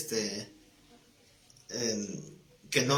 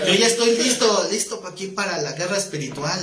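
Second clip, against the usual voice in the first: eager laughing boast; 4 semitones higher, 4 dB louder than usual. Retold or imitated. Eager for spiritual warfare, laughing.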